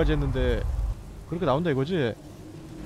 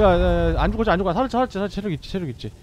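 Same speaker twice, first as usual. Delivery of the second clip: usual speaking voice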